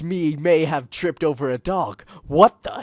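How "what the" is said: startled. A narrator's reading. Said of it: "he started to say".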